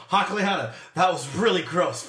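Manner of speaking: yelled across the battlefield; calling from far away. Acted. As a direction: call out to someone far off. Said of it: "I'm gonna yell over to".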